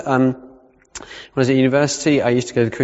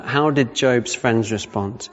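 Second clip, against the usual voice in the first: slow repeated question; 2 semitones lower, slower than usual. Shown as a demonstration.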